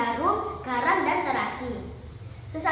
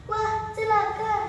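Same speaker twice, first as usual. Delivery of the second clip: alarm; 6 semitones higher, slower than usual. Acted. Mbok Rondo alarmed at giant's arrival.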